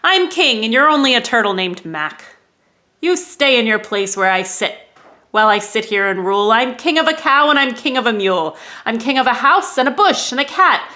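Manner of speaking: loud, pompous royal boast; thundering king. Acted. King turtle boasting to Mac, loud and pompous. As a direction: puff up and lord it over Mac. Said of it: "his royal voice thundered".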